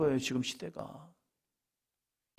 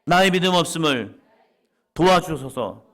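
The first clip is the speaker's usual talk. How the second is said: preacher calling out the verse for all to repeat; loud confession; 4 semitones higher, 9 dB louder than usual. Shown as a demonstration. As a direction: lead the congregation in the cry. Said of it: "옆 사람 보시면서요".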